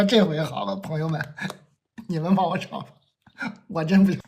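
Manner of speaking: laughing through the plea; pleading with classmates while giggling. Retold or imitated. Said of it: "我说".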